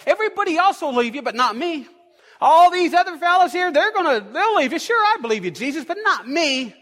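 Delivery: eager, loud boast of loyalty; a lightly voiced brash Peter. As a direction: swear you'll never leave him, proudly.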